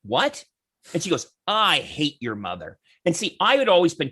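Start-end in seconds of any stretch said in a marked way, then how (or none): 0.0-0.4 mildly puzzled, rising question; taken aback. Retold or imitated. Son answers the woman who insulted his mother, taken aback. 1.5-2.8 slow, low, emphatic repeat; retold hostility. Woman repeats her insult to the politician's son, hostile.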